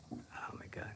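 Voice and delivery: breathy whispered oh my God; hushed under-the-breath exclamation. Real, not acted. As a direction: whisper it to yourself in dismay. Painter dismayed at own drawing.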